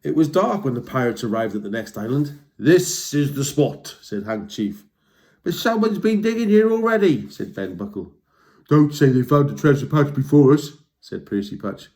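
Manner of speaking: lively storybook read-aloud; reading to children. A narrator's reading. Reading a troll story to young listeners, lively. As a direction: tell it like bedtime to kids. Reads a picture book aloud.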